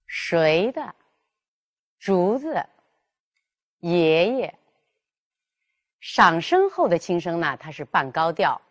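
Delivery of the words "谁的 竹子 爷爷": 谁的 竹子 爷爷 with a light, short, mid second syllable; rising first syllable, then 的 子 爷 light at mid pitch; neutral tone demo. Shown as a demonstration. Teacher modelling neutral tone after second tone, careful. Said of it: "要读作三度".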